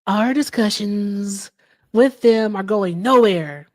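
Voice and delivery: slow, drawn-out, lightly voiced Trump; a hint of Trump, dragging each word out; Trump impression. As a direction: streamer mocking Trump's post in his voice, slow and deliberate. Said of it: "I'm working on my Trump impression".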